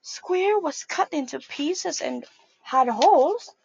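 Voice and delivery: lively picture-book read-aloud; reading to children. A narrator's reading. Teacher reading a picture book to children, lively storytime voice. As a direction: read it out to a group of little kids.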